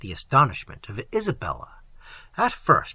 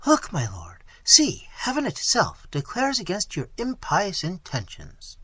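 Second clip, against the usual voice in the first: cried out; 5 semitones higher than usual. Acted.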